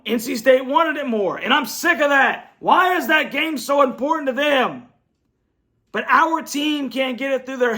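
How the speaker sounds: real fed-up outrage; frustrated fan rant. Real, not acted. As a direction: demand it, sick and tired of losing. Fan's angry rant about rivalry loss.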